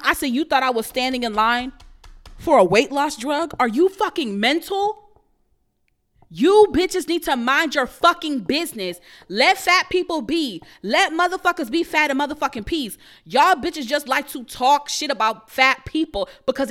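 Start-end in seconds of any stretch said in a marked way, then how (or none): 0.3-5.0 retold angry retort. Retold snapping back at woman. 6.3-13.0 louder and higher, fed up; loud angry rant. Real, not acted. Telling off people who judge fat bodies, loud angry rant.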